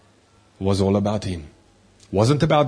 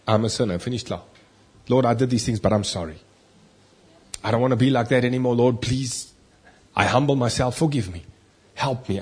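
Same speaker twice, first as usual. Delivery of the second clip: humble prayer. Shown as a demonstration. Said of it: "No, no".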